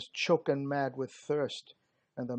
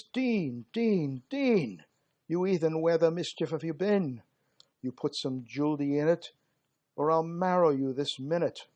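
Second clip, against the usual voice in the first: impatient soldier scolding; 5 dB louder than usual. Acted. Soldier shouting at the water-carrier to hurry, impatient and loud. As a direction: bawl him out for dawdling.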